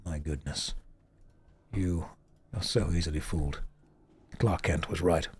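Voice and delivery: very deep voice. Shown as a demonstration. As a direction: drop into your deepest register. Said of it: "the balls that have dropped to get this voice".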